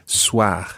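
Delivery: Soir ending in a throaty French R; Soir, uvular R; guttural R soir. Shown as a demonstration. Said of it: "a guttural R at the end".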